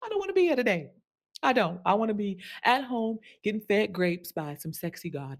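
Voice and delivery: dramatic whining. Retold or imitated. Dramatic honest complaint.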